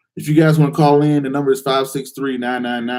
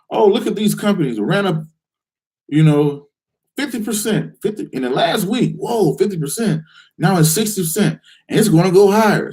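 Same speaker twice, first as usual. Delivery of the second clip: higher, excited chatter about a stock run-up; hyped-up investor; 4 semitones higher than usual. Retold or imitated. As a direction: play the overexcited trader chasing gains.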